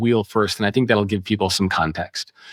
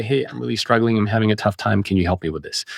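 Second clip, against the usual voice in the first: vulnerable ask; 3 semitones lower than usual. Shown as a demonstration. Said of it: "Or you could say".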